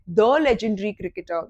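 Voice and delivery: THE legendary, the word "the" leaned on; stress on the. Shown as a demonstration. Teacher stressing "the" for students. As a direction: lean on "the" in "the legendary cricketer". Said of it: "a playwright नहीं, the playwright".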